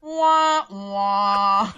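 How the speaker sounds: hammed-up boo-hoo crying; mock crying. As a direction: whine like a pretend crybaby. Mock crying at Rob's sad pick.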